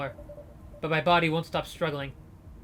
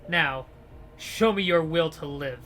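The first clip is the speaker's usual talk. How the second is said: louder, amused leader's voice; menacing gang leader; 6 dB louder than usual. Acted. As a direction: savor the fight, menacing.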